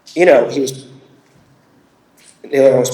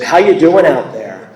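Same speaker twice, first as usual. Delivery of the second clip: lightly imitated crabby stage greeting; slightly raised pitch, mock crowd address; a hint of the old crab at the mic; a singer between songs; 4 semitones higher, 5 dB louder, slower than usual. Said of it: "such an old crab when he talks".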